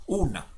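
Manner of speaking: "una" with a brief gap after u; paused between syllables. Shown as a demonstration. Teacher demonstrating the pause, "una" in two syllables. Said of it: "con esa pausa".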